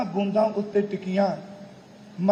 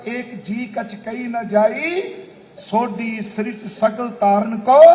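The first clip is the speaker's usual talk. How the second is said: raised, declaimed bardic praise verse; bard's loud proclamation; 3 semitones higher, 3 dB louder than usual. Acted. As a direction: recite like a bard praising the Guru aloud. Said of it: "ਭੱਟ ਫਿਰ ਉੱਚੀ ਆਵਾਜ਼ ਵਿੱਚ ਬੋਲੇ".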